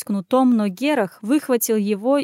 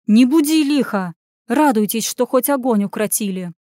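raised-voice rebuke, easing at the end; scolding; 4 dB louder than usual. Acted. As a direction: tell off a panicking wailer. Crowd member rebukes wailing woman.

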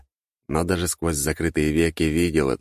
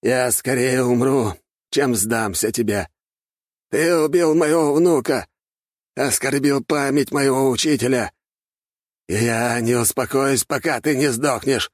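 high, slow, louder vow of vengeance; furious vow; 8 semitones higher, 3 dB louder than usual. Acted. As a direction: spit hatred at the killer. Enraged archmage swears revenge.

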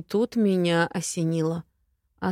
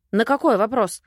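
snapping back; 3 semitones higher, 5 dB louder than usual. Acted. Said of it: "огрызнулась я".

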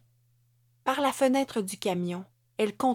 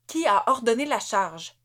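louder, sharp angry question; snapping demand; 3 semitones higher, 5 dB louder than usual. Acted. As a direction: bark it at the troops. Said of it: "jappa-t-elle".

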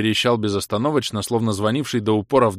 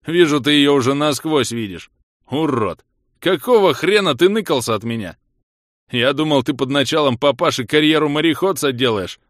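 loud, raised tirade; boisterous scolding; 5 semitones higher, 6 dB louder than usual. Acted. Коготь telling off the friend who hid, boisterous scolding. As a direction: berate an old friend at full voice.

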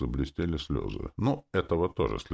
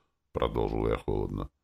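ordinary delivery, nothing marked

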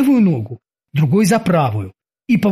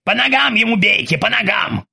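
urgent shout to aim at legs; shouting orders; 5 semitones higher than usual. Acted. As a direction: call out the order fast.

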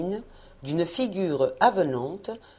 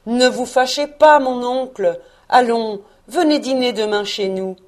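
lightly voiced eager nephew, pitched up; cheerful nephew; 4 semitones higher, 5 dB louder than usual. A narrator's reading. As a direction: coax your uncle with a lively invitation. Neveu apaise son oncle, l'invite. (neveu enjoué, légèrement joué)

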